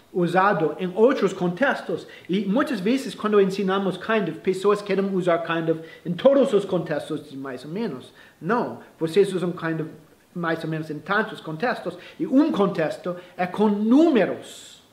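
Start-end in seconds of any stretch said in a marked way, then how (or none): none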